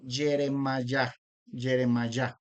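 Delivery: "Yeremayá" slow, ye-re-ma-YA; phonetic match. Shown as a demonstration. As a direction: stretch out "Yeremayá" syllable by syllable. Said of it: "la similitud fonética".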